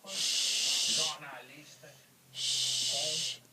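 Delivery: hushing. Real, not acted. Hushing the pet.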